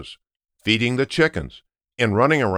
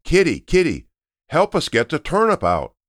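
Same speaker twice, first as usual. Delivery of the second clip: calling the cat; 7 semitones higher than usual. Acted. Family calling the cat off the roof, high call. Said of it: "so they started to shout".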